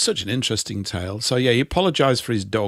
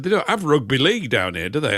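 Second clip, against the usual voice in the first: imitating a Yorkshireman; lightly put-on Yorkshire accent. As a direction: do a Yorkshire local asking a question. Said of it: "where's that accent from".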